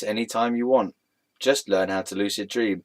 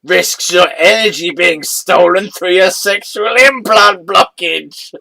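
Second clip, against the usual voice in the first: suppressing laughter; 6 semitones higher, 9 dB louder, slower than usual. Real, not acted. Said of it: "I just can't say these words without laughing".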